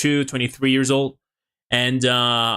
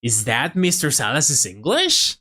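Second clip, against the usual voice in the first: mocking commenter; slower than usual. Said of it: "you'll see a lot of people saying".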